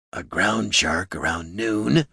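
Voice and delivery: slow, drawn-out troll. A narrator's reading. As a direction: report it slowly as a big troll. Troll reports, slow character voice.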